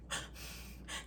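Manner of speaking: long, soft exhausted-style sigh; heavy sigh. Retold or imitated. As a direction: let out a slow breath. Reacting while retelling her walk.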